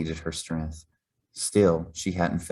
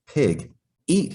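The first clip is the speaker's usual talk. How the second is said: higher, louder shouted order; 8 semitones higher, 4 dB louder than usual. A narrator's reading. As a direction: bark it at the pig like a cranky cook. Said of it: "he shouted".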